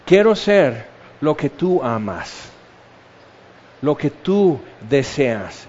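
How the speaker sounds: slow, low, heartfelt plea; earnest prayer. Acted. Believer answering what Jesus should do, earnest prayer. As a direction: confess it slowly and humbly, voice sinking.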